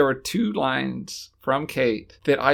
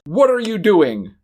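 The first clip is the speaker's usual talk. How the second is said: stilted delivery; 3 semitones higher, 5 dB louder than usual. Retold or imitated. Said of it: "like, weird way where she just".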